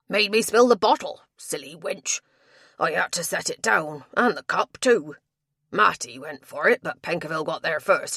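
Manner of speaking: lightly voiced surly rural tapster; a hint of a sulky country barman; rough tapster voice. Tapster character voice.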